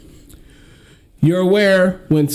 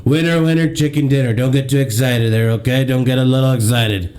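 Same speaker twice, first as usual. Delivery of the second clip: lightly voiced Trump, boastful and taunting; a hint of Trump mocking his liberal co-host; Donald Trump impression. Host mocks the liberal co-host as Trump, lightly voiced Trump. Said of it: "It's me, the Donald".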